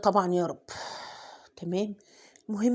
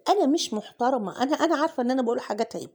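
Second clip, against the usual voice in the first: laughing; 2 semitones higher, faster than usual. Real, not acted. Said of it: "أنا قليلة الأدب".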